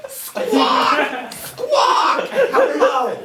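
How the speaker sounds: high, loud squawking parrot. Acted. Tavern parrot squawks a greeting at the party, screeching high. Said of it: "a parrot in it who says".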